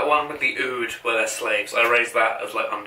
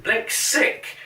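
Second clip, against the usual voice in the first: mocking fans; 4 semitones higher than usual. Mocking fans who kept pushing Blink, high and gushing. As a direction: parody the pushy fans raving about Blink. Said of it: "Every motherfucker was like".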